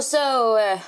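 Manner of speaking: high, slow mock American questions; pushy American guy. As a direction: press her with eager questions. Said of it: "Han bara".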